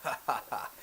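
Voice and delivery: short acted ha-ha-ha; character's laugh. Announcer laughing at the Englishman's boast, acted scornful laugh. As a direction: let out a staccato stage laugh. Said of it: "He lets out a laugh".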